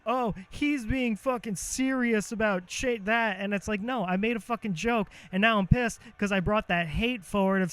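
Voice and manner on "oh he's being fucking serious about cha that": slow, mock-dopey critic voice; mocking dumb critic. Streamer mocking his audience in a dopey voice. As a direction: drag it out like a clueless commenter. Mocking people who think he's serious.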